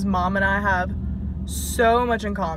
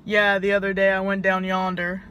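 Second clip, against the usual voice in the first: a touch of Southern twang slipping out; southern accent; 4 dB louder than usual. Retold or imitated. Chatting with Sydney, slipping into a light Southern accent. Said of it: "we'll be like".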